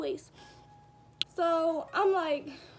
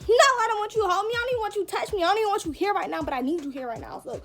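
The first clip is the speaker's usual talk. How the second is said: angry retort; 4 semitones higher, 5 dB louder, faster than usual. Retold or imitated. Retelling her angry reply.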